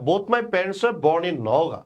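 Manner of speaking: very slow, even and deliberate; slow dictation. Shown as a demonstration. Teacher reading the model sentence slowly. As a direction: read the sentence out slowly for students. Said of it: "কি বলছে ভাইয়া".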